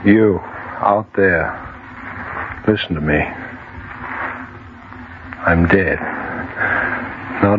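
a hint of ghostly, solemn confession; dead man's voice. Dead man warns listeners, lightly haunted and solemn.

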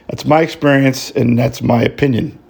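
tired, fading voice at the end; voice giving out. Real, not acted. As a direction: voice wearing thin, running out. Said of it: "that's my voice giving out".

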